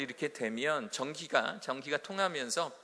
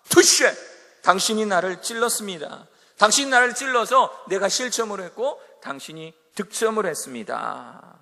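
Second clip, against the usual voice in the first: sincere admission; 4 semitones higher, 9 dB louder than usual. Retold or imitated. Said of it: "이게 아니라".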